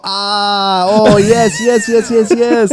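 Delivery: lightly voiced Asian-accented staff, eager; light Asian accent, delighted; Asian accent imitation. Shop staff finally understanding.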